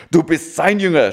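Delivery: a touch of an angry accusation; mild mock shout. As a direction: Pharisees accuse the healed man, mildly acted as a shout. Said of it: "schrien sie ihn an".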